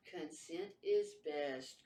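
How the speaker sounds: very slow monotone; robot voice. Retold or imitated. Lightly imitated robot doll commenting to her. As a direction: state it like a machine. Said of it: "robot voice".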